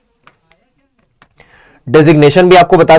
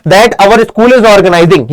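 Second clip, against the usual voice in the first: slow dictation; much slower than usual. Shown as a demonstration. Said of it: "यही करना है भैया".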